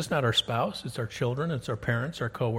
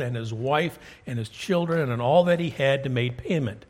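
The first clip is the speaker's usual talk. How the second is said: scripture reading. Acted. Reads scripture aloud.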